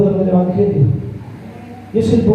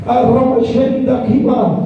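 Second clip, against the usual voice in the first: speaking in tongues; slower than usual. Real, not acted. Speaking in tongues mid-sermon.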